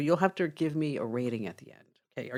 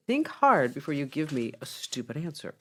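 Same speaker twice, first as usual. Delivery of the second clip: mildly testy warning; measured, pointed warning to a trainee. Acted. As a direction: warn with patience running out. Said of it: "testy voice".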